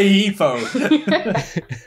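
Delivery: "Heathrow" said as "Heefrow"; drawn-out "Heathrow" with F for TH; F sound in Heathrow. Retold or imitated. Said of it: "is that the way you pronounced Heathrow".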